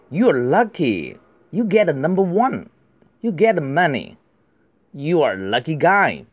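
lively, expressive reading, pitch lifted. Shown as a demonstration. Teacher rereading the lines with feeling for the class, expressive. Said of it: "有感情一点的".

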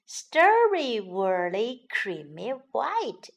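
sleepy yawning voice. Acted. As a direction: say it through a yawn. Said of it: "she yawned".

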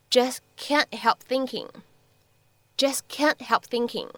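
"Just can't help thinking" slow, final stops unreleased; linked model phrase. Shown as a demonstration. Teacher models the linked phrase slowly.

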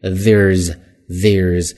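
"there's" with voiced th, tongue between teeth; careful, isolated there's. Shown as a demonstration. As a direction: model there's with an air diphthong. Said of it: "T H 在这是一个浊辅音咬舌头".

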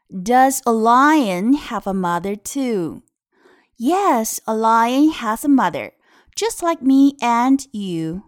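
slow, lilting picture-book reading; read-aloud to children. Shown as a demonstration. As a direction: read it out clearly for small learners.

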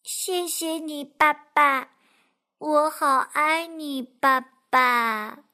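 drowsy, slowing little voice; sleepy duckling. Acted. Duckling drowsily thanking the fox. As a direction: murmur it half asleep. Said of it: "睡眼朦胧地说".

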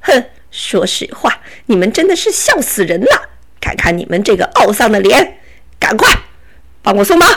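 laughing bandit, barking orders; scoff, then command them to untie you; bossy robber. Acted. (强盗大笑着发号施令)

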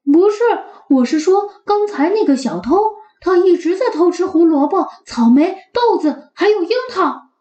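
quick eager little dog; eager puppy. Acted. Max explains. (急切的小狗)

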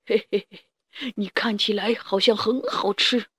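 greedy dinosaur eyeing dinner; T-rex voice. Acted. Hungry T-rex sees prey.

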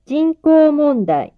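slow, careful dictation; each word said slowly and clearly; dictating. Shown as a demonstration. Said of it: "書き取ってください".

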